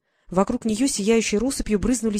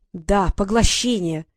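slow, louder, insistent "поглощение"; irritated; 4 dB louder, slower than usual. Acted. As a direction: hammer it home, losing patience. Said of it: "Фея всё больше раздражалась". (медленно и громче, раздражённо)

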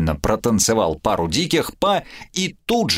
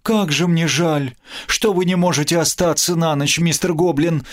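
higher, hammed-up lament; mock despair; 7 semitones higher than usual. Gerta laments the goblin must leave, in mock despair. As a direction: wring your hands and mourn theatrically. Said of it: "в отчаянии заломила руки Герта".

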